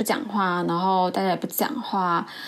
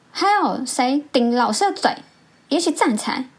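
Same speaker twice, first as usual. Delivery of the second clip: raised, punchy retold demand; mock furious interrogation; very angry teacher; 5 semitones higher, 4 dB louder than usual. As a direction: call out the culprit like an angry teacher. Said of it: "就非常的生气".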